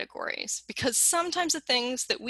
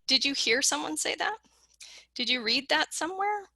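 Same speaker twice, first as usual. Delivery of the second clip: gently curious; 5 semitones higher than usual. Shown as a demonstration. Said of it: "take a step back and say".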